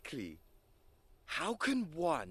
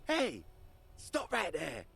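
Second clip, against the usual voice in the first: shouting. Acted. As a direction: yell after them to halt. Calling out to stop someone.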